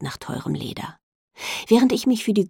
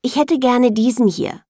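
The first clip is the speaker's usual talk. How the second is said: announcing; 7 semitones higher, 7 dB louder than usual. A narrator's reading. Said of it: "verkünde ich".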